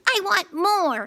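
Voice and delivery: high, slow belched demand; slow greedy belch. A narrator's reading. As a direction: burp the words out greedily. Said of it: "he belched".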